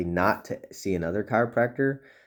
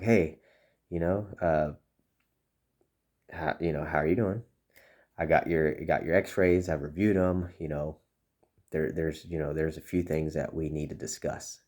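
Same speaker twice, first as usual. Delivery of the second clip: serious tone. Shown as a demonstration. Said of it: "you can already see my tone changing".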